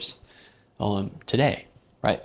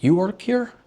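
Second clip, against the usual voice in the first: higher, louder, squeaky mock of the guy; 10 semitones higher, 6 dB louder than usual. Mocking the guy who mistook him for staff, high and loud. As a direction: ham up the guy's question. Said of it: "because he was like".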